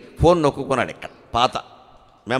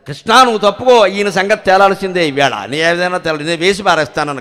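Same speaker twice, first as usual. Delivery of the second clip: mock angry threat; 2 semitones higher, 5 dB louder than usual. Arjuna vowing to kill brother.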